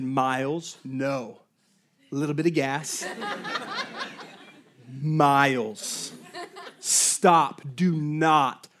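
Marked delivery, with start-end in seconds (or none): 0.0-1.4 low, soft, measured reprimand; retold calm parental warning. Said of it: "I very calmly said". 5.0-8.7 retold calm warning, word by word; spaced-out, controlled parental order. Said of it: "I very calmly said".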